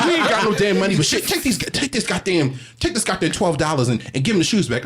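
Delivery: lightly voiced fed-up mother; exasperated mother. Mother settles the fight with twelve dollars, mock voice. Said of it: "my mother was like".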